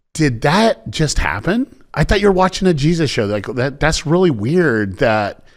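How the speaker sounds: imitated baffled surprise; mock disbelief. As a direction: act out a sister doing a double take. Sister stumbles on odd Jesus show.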